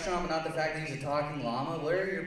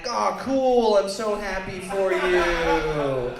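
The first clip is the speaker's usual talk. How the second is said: sarcastic congratulations; 4 semitones higher, 6 dB louder, much slower than usual. Retold or imitated. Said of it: "And I'm like".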